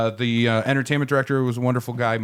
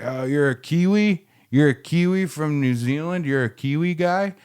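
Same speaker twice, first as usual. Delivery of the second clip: put-on drunk guy; 5 semitones higher than usual. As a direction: play the sloppy drunk pestering a stranger. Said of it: "He's like".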